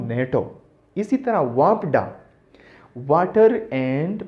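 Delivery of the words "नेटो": "नेटो" said as one word; pronounced as a word. Shown as a demonstration. Teacher showing how an acronym works, "नेटो" pronounced as one word. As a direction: run the initials together as "नेटो". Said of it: "मैं इसको pronounce कर सकता हूँ".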